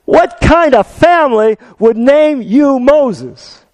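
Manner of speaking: slow, high, scoffing; mocking question. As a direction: sneer at the silly name. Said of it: "he said".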